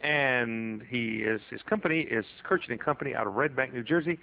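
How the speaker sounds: radio host. Acted. Host reads station return.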